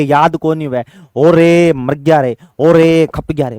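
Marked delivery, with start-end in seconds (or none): 1.2-3.6 slow, drawn-out lament; lightly hammed-up cry; mock wail. Shown as a demonstration. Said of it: "बोलते हैं, नहीं बोलते?".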